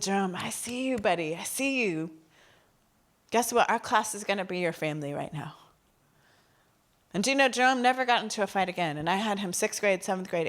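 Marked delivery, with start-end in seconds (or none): 0.0-5.5 reassuring. Retold or imitated. Comforts crying student.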